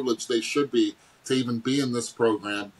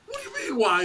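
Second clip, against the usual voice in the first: stunned disbelief; 13 semitones higher than usual. Retold or imitated. To his dad who asked why, a very high stunned reply. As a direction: sound floored by the question. Retold reaction to dad's question.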